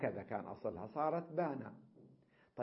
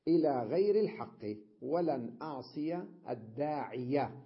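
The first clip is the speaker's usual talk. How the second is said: إلى غير الحق ولن أعصي الداعية read louder, stressing غير; emphatic example reading; 5 dB louder than usual. Shown as a demonstration. Teacher reading the grammar example aloud, emphatic. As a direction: declaim the example sentence, leaning on غير. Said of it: "مثل".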